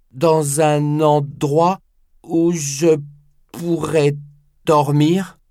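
put-on slow, humble elderly voice; old man voice. Nakata's voice in audiobook.

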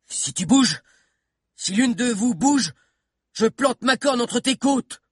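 high, slow threatening voice; Bill threatening the girls with his spear; menacing threat. Acted. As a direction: draw out the threat to scare them.

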